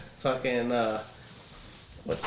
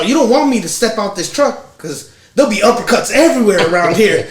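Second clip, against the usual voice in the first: higher, louder mock threat; redneck threat; 6 semitones higher, 6 dB louder than usual. Redneck threatening the driver in the joke, mock tough. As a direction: puff up and threaten to step out. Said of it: "He's all".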